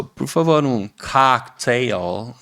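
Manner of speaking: cocktail in American English, drawn out; mock English cocktail order. Customer at the restaurant ordering in English. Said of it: "vai falar pra pessoa".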